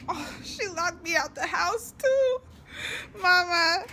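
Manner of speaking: loud call to mom. Real, not acted. Daughter locked out calling to her mom, loud. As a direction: call out across the yard.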